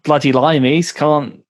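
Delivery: slowed-down mock Aussie accent; Australian accent. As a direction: put on an Australian accent, taking it slowly. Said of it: "he's doing an Australian accent".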